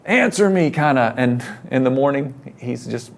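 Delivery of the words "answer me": mock shout, much higher and louder; Lieutenant Dan hollering at God in the storm; yelling at God. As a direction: hurl it up at the sky from the mast. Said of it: "he's yelling out".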